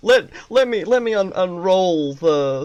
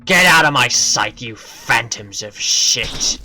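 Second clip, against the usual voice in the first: a hint of a territorial guardian, louder at first; gruff guardian; 4 semitones lower, 4 dB louder than usual. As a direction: snarl him off your turf. Reading the zone guardian's lines.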